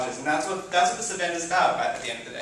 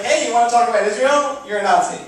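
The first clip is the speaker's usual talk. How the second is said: mock hostile blogger; 6 semitones higher, 9 dB louder than usual. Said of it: "That's like".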